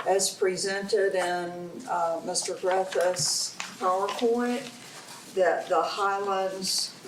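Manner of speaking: slow, halting reading aloud; stumbling cold read. Real, not acted. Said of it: "I'm reading it wrong".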